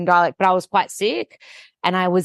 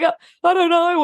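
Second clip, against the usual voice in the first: retold tearful doubt; 10 semitones higher, 3 dB louder than usual. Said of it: "the tears were, um, rolling".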